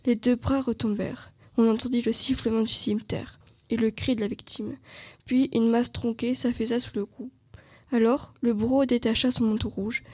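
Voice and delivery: measured novel reading, slightly firmer voice; story narration. Acted. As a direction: read the excerpt aloud with care. Reads novel excerpt aloud.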